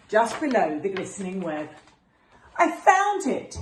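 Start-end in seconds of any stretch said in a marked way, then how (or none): 2.6-3.6 high, loud, drawn-out squeal of delight; a boy delighted to find the afikoman, squealing; excited squeal. Acted. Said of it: "he squealed".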